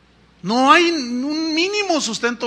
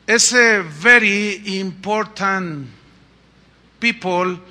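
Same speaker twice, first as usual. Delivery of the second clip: slow mocking VIP; 3 dB louder, much slower than usual. Shown as a demonstration. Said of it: "alegorizamos un poco".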